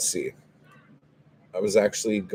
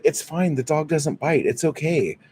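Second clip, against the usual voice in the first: mimicked dog owner, pitched high; mock reassurance; 7 semitones higher than usual. Dog owner waving away the kid's terror, high mock reassurance. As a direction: brush off the fear in a higher mocking voice.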